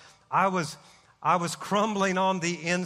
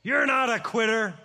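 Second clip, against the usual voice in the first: shouted across the bus, pitched up; retold yell; 5 semitones higher than usual. Pastor yelling encouragement to Randy on the bus, shouted. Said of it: "and he yells".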